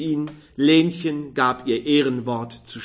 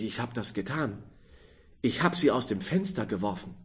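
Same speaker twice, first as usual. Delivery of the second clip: soft, hushed, stricken voice; quiet horrified admission of guilt; despairing confession; 2 semitones lower, 7 dB quieter, faster than usual. Acted. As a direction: confess it in dread. Fruit dealer confesses killing.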